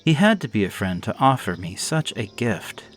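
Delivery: ordinary delivery, nothing marked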